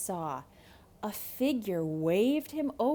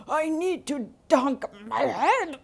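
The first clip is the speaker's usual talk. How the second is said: louder, higher, desperate; frantic wolf; 6 semitones higher, 8 dB louder than usual. Acted. Wolf after the habanero, frantic and loud. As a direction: cry it out with a burning mouth.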